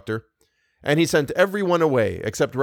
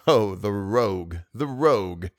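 amused laugh; 4 semitones lower, slower than usual. Acted.

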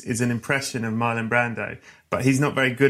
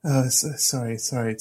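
apologetic British. Retold or imitated. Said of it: "stereotype of British is to be".

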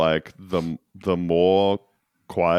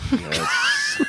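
laughing shout. Real, not acted. Mock confession, always runs lights.

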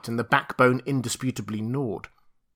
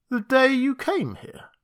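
incredulous question; 13 semitones higher than usual. Acted. Montgomery alarmed.

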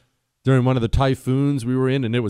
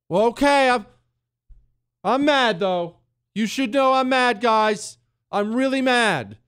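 high whiny pretend anger; mock whiny politician; 9 semitones higher than usual. Mocking weak Republicans who only say they're mad, high and whiny. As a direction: whine it like a toothless scold.

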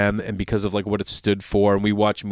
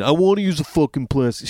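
mock whiny jerk; 3 semitones higher than usual. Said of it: "this comedian was saying".

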